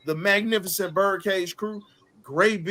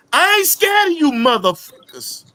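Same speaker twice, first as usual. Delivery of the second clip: high, loud defiant yell; Bernie Mac shout; 6 semitones higher, 12 dB louder than usual. Retold or imitated. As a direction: roar it like Bernie Mac on stage. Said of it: "Rest in peace to Bernie Mac".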